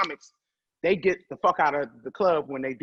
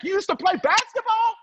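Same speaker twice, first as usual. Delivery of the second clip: high, loud disbelieving pitch jump; mock shock at the news; incredulous question; 4 dB louder than usual. Friend can't believe she played basketball, high and incredulous.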